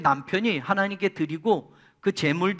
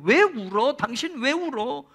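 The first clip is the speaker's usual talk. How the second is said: husband consoling; 5 semitones higher, 6 dB louder than usual. Retold or imitated. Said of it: "남편 엘가나가 한나에게 말해요".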